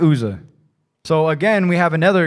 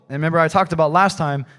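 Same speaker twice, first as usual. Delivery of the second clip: usual speaking voice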